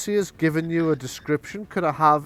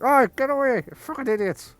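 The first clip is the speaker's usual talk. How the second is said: bang and yell at the vandals; angry yell from inside; 11 semitones higher than usual. Acted. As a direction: shopkeeper yelling at vandals through the glass, furious.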